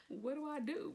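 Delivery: high mock-panicked question; retold freak-out. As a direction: replay the panic after a laugh. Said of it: "Like, I'm freaking out".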